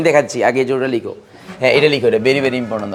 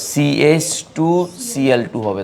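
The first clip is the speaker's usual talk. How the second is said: formula drawn out slowly, symbol by symbol; slow formula dictation; much slower than usual. Real, not acted. Teacher giving the class the next formula, slow dictation.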